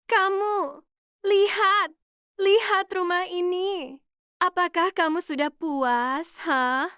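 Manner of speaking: a father's hoarse, murderous fury; enraged outburst at his daughter; furious father. A narrator's reading. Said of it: "Suaranya serak. Suaranya gemetar, tapi penuh niat membunuh".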